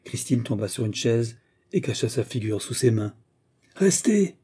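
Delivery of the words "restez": high, commanding call; ringing royal command; thundering cry. A narrator's reading. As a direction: cry out an order to stop. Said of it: "cria Charles douze d'une voix tonnante".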